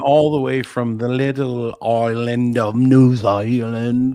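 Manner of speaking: slow, loud showbiz announcer. Pretend. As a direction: introduce her like a ring announcer. Announcing guest to audience.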